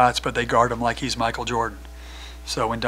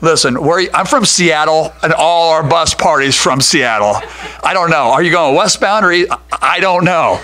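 frantic exchange; 5 semitones higher, 10 dB louder than usual. Retold or imitated. Back-and-forth on the call.

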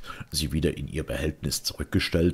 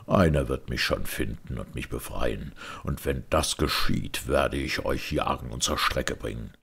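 tiefer und leiser, langsam drohend; leise drohender Mönch; 4 semitones lower than usual. Acted. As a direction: kalte Drohung der Jagd. (gefesselter Mönch droht dem Erzähler leise mit Rache)

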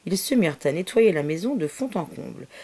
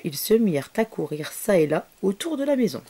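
plain reading voice

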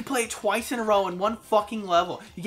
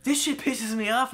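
controlled irritation; annoyed, emphatic venting; mad; 5 semitones higher than usual. Shown as a demonstration. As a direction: show what being mad sounds like. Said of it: "This is what I sound like when I'm mad".

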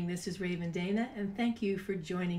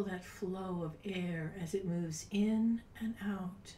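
soft guided meditation. Acted. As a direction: guide them gently into calm, breathy and unhurried. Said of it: "It's time to do a meditation".

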